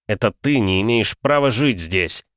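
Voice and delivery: growling. Acted. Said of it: "прорычал я".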